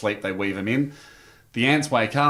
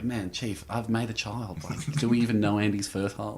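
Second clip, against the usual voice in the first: desperate pleading; 6 dB quieter than usual. Retold or imitated. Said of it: "And I'm like".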